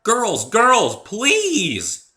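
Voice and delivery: high, loud plea to stop; placating shout. Acted. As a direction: shout them apart to calm things. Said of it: "I shouted, trying to placate them".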